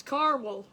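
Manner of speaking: caramel as CAR-wul, middle A dropped; two-syllable caramel. Retold or imitated. Host echoing viewers' version, caramel as CAR-mul. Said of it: "it's not even caramel".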